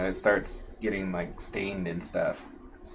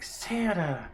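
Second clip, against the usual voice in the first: put-on high squeal of "Santa!" as a small child; a little kid spotting Santa, thrilled; mock toddler squeal of "Santa!"; excited little girl; 10 semitones higher than usual.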